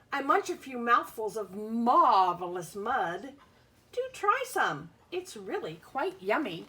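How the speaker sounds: a hint of a cheerful worm, lilting storybook read; lightly voiced worm. Teacher reads the worm's lines to young pupils, playful. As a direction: offer the mud like a treat, playful. Bug speaks in book.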